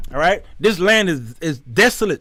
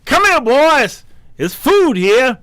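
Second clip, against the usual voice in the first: high, slow, drawn-out summoning call; 7 semitones higher, 4 dB louder, slower than usual. Acted. God baiting enemies with food, high calling out. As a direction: lure the enemy over with a holler. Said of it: "He's talking to the enemies".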